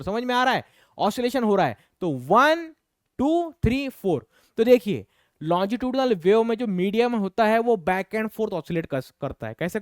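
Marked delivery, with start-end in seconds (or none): 2.1-4.3 drawn-out count, high on टू three, dropping on four; demonstrative counting. Shown as a demonstration. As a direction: count out each swing in a sing-song up-and-down. Counting out each oscillation step.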